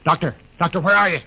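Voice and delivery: high, loud call across the field. Acted. Captain calling for the missing doctor, loud shout. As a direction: call out to find him.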